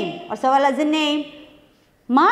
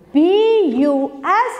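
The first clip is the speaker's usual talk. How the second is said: spelled out; 3 semitones higher, slower than usual. Shown as a demonstration. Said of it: "How can we read B U S?".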